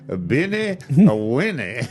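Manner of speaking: put-on "A Beanie, a Winnie" in a French accent, high on "Beanie". Host imitating the French chef saying it on TV, French accent. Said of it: "gonna sound better with a French accent".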